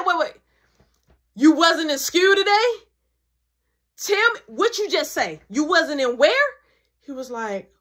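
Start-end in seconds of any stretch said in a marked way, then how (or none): 0.0-6.5 mom's disbelief. Retold or imitated. Mom catching the lie.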